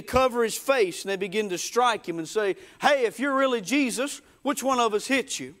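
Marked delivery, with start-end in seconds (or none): 2.8-5.5 higher-pitched mock taunt. Soldiers striking the blindfolded Jesus, mocking. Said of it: "they begin to mock him".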